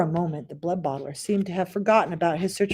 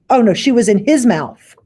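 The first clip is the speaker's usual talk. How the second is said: narrated horror; 4 semitones higher, 9 dB louder than usual. A narrator's reading.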